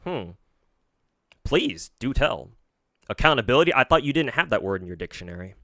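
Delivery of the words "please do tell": slow, drawn-out sarcasm; mock polite invitation; sarcastic. Real, not acted.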